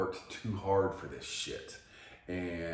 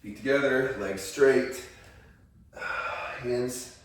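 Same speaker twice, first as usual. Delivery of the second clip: strained stretch; 7 semitones higher, 8 dB louder, slower than usual. Real, not acted. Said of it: "instructing own stretches".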